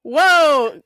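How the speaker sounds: surprised, carrying whoa; loud whoa. Real, not acted. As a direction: call out a long whoa. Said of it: "the whoa was really loud".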